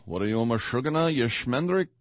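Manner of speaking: Jackie Mason impression. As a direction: do a Borscht Belt Jackie Mason bit. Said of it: "sound like Jackie Mason".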